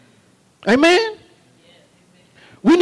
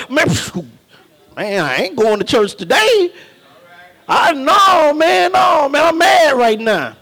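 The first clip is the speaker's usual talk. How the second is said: mock grumbling churchgoer. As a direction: play the sufferer who refuses church. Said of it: "Some people like".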